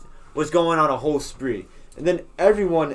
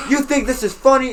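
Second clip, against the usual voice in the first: raised, loud scolding question; yelling principal; 9 semitones higher, 5 dB louder than usual. Retold or imitated. Principal rips into laughing students, yelling. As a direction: rip into them as an angry principal. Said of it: "he yells".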